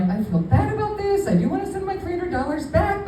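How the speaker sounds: high-pitched, sheepish excuse; mock apologetic. Telling the caller she feels bad, mock apologetic. Acting out her guilty reply.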